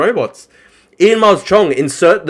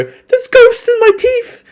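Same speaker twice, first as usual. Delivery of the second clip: very high, loud mock crying; hammed-up falsetto pleading through sobs; Ian Miles Chong; 4 dB louder than usual. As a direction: wail it like a hysterical crybaby. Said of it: "had Ian Miles Chong effectively going".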